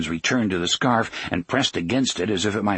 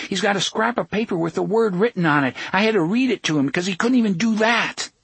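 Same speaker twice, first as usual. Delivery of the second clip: put-on boy's voice; 10 semitones higher, faster than usual. A narrator's reading. Jake's high voice.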